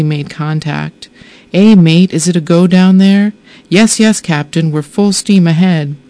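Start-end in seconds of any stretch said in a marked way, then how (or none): 1.5-3.3 brain calling down. Retold or imitated. Synapses in my brain sending exploratory signals. 3.7-6.0 uterus answering. Retold or imitated. Finally made contact.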